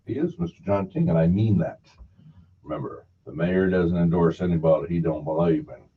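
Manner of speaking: steady sponsor read by a radio host. Acted.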